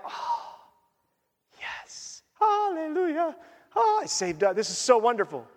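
breathy hushed gasp then high hallelujah; mock delight. Worshipper mocking shopper thrill, hushed then high. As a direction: gush over a new package, playfully.

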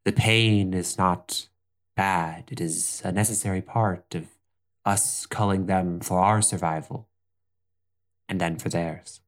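lightly voiced wise elder explaining gently; a patient mentor teaching a child; calm elder teacher. Elder teaches about reeds.

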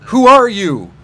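put-on beast voice, pushed out loud; mock wolf voice. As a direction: imitate a wolf labouring to speak. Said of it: "had to drag every word out".

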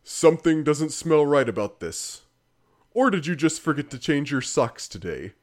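schlocky game-narrator voice; exaggerated announcer. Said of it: "the announcer or the narrator goes".

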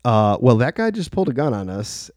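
understated, measured retelling of bad news; retold calm, matter-of-fact delivery. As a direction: re-enact breaking it calmly so nobody freaks out. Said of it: "very calmly".

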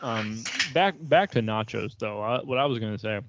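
talking with mouth full; words around a bite of cookie; chewing while talking. Real, not acted. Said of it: "Pardon my chewing. I'm eating cookies".

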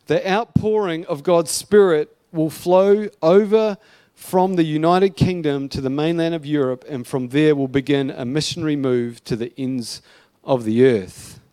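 measured, emphatic reading aloud; prophecy read-out. Acted. Preacher reads an old prophecy to church, emphatic read-out. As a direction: proclaim it in weighty phrases, with pauses.

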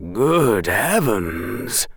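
slow, stunned exclamation; gasped. Acted. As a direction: breathe it out in shock. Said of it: "gasped the man".

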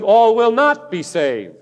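firm emphasis on "not"; emphatic. Real, not acted. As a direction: state it emphatically, landing on "not". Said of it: "I can say that emphatically".

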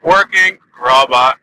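slow robotic monotone powering down. Pretend. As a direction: speak like a robot shutting off. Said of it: "I haven't done that in a while".

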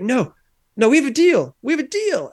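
high-pitched mock pleading; retold protest. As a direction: imitate a friend desperately holding him to a bargain. Retold friend protesting broken deal.

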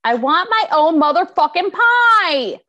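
loud, high, hammed-up tantrum; indignant yelling on a friend's behalf; outraged demand. Voicing friend's demand for pie.

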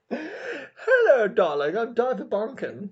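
seventies film star. Acted. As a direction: purr it like a femme fatale. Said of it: "sounds like a seventies film star".

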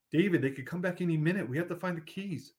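high, fast, pressing sister pleading; urgent sister. Acted. Sister urging escape, keys.

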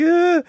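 very high retold wail of a crying child. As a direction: wail like a kid running off in tears. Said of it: "yo me fui llorando".

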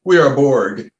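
dry delivery. Retold or imitated. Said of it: "this real dry delivery".

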